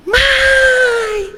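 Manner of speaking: a high shouted "Mãe!" from far off; child shouting back. Retold or imitated. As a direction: yell it back like a kid across the house. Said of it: "Deu um grito".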